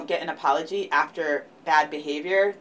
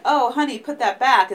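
higher, louder half-joking scold; mock scolding spouse; 7 semitones higher, 6 dB louder than usual. A spouse telling the other to leave the floorboards alone, mock scolding. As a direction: gently shoo the partner away from the mess. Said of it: "it's not like".

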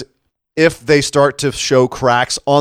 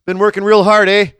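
mock Canadian accent, pitched higher; Kevin Owens impression; 6 semitones higher than usual. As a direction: exaggerate the Canadian lilt, tossing in "eh". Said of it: "he's suddenly really Canadian".

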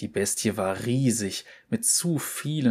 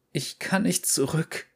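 higher, weak hoarse voice; 7 semitones higher than usual. Acted. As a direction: speak faintly, throat raw from smoke. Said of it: "ihre Stimme schwach und heiser". (schwach und heiser)

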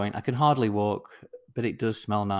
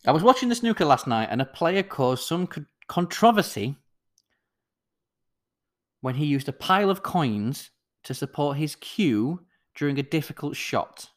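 fast and louder. Shown as a demonstration. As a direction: rush the retelling, louder. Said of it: "retold faster and louder".

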